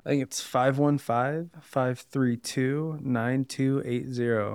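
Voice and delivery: slow, measured phone-number readout; professional phone call voice. Shown as a demonstration. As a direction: give the number in your professional phone voice, slowly. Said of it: "that was my phone call voice".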